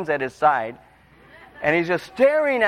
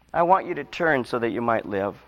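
soft repeat; 5 semitones lower than usual. Shown as a demonstration. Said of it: "repeated softer".

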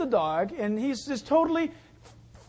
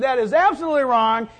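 mock scolding; 7 dB louder than usual. Acts out scolding the dog.

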